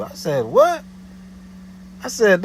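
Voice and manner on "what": very high, louder disbelief; retelling his stunned reply; incredulous what. Retold or imitated. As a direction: shoot it back in disbelief.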